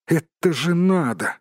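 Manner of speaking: high-pitched, mildly exasperated hobbit. A narrator's reading. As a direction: exclaim high as the put-upon hobbit. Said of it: "всплеснул руками хоббит".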